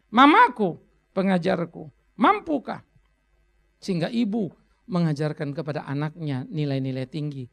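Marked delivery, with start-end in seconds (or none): 0.1-2.8 loud, pointed rhetorical repeat; louder recital. Acted. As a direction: press the question home.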